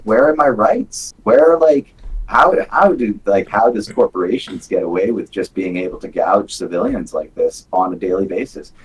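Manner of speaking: exasperated protest at being gouged; indignant outcry. Retold or imitated. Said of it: "I'm like".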